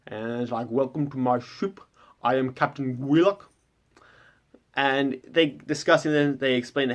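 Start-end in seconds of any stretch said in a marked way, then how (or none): 0.7-3.4 lightly muffled fish-captain voice, as if something is in the mouth; a hint of a strange sea captain welcoming guests; Gwillock's odd voice. Fish captain welcoming the stranded party aboard, lightly muffled voice. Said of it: "And he just talks like this".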